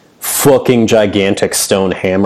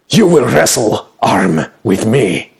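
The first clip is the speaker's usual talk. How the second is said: pleading; slower than usual. Acted. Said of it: "pleading with you".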